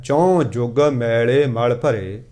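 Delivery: slow, measured verse reading; scripture recitation. Acted. Preacher reading Gurbani to the congregation, slow recitation. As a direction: draw out each word of the sacred verse.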